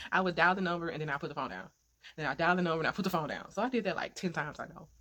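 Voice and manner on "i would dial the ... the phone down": fast, louder, giggling through it; laughing at her own nerves while retelling; nervous laughing rush. Real, not acted.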